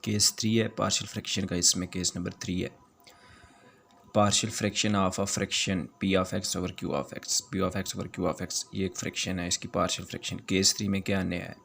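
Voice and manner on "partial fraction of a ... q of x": very slow, word by word for notes; slow dictation. Shown as a demonstration. Teacher dictating the formula to students, very slow. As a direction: spell it out slowly so students can write. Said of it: "teacher dictates the formula slowly".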